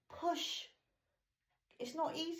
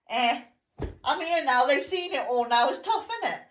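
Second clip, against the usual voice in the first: laughing; 4 semitones higher, 9 dB louder than usual. Retold or imitated. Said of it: "And I'm like".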